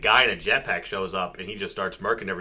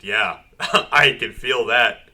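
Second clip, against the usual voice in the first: laughing dry quote; 5 dB louder, much slower than usual. Retold or imitated. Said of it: "he's like".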